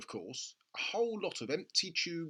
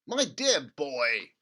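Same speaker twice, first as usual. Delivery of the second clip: gushing over a money-making idea; excited father; 3 semitones higher, 9 dB louder, much slower than usual. A narrator's reading. Father urging his son at breakfast, excited. Mr Cranky voiced.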